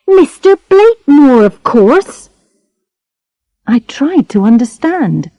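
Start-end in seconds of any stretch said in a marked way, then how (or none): 0.1-2.3 put-on high, sulky girl voice; sulky young girl. A narrator's reading. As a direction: brush it off like a pouting girl. Charlotte voiced.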